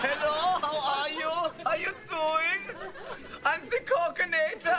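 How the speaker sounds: lightly voiced action-star impression; Arnold Schwarzenegger. Guest greeting the hosts, lightly done action-star impression. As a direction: imitate the action star as a chat-show guest. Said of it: "our guest on the Schwarzenegger".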